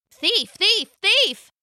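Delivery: high penguin chirps, rising; chirped accusation, passed beak to beak; chirping. Acted. Penguin crowd chirping an accusation at the thief. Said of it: "the penguins were chirping".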